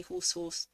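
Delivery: HORSE said twice exactly alike; identical pronunciation. Shown as a demonstration. Showing horse and hoarse sound the same, identical pronunciation. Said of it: "they sound the same to me".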